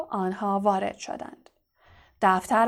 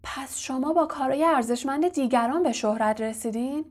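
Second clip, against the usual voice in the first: mildly disbelieving question; incredulous; 3 semitones higher than usual. Acted. Harry questions his professor's stolen fame, incredulous. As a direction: ask with a touch of disbelief. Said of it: "ناباورانه گفت".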